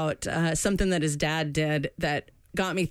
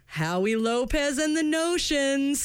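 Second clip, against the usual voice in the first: dad getting it wrong; 6 semitones higher, slower than usual. Retold or imitated. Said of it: "And he's like".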